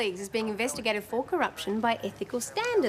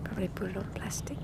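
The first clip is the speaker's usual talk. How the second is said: hushed, half-whispered aside; soft, barely voiced; numb murmur; 3 semitones lower, 7 dB quieter, faster than usual. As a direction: murmur it to yourself in shock. Numb grief about mother's gift.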